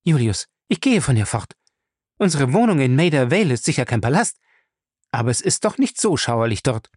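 put-on a young woman's voice, upset and determined; upset young wife. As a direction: insist on leaving this gloomy place. Fay tells Julius she leaves.

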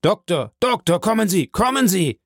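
high, urgent call. A narrator's reading. Villefort at the door summons the doctor, urgently calling. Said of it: "und rief".

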